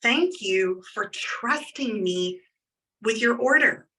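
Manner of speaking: slow sincere thank-you, weight on thank; mean every word, slowly; genuine heartfelt thanks. Shown as a demonstration. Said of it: "Like, genuinely".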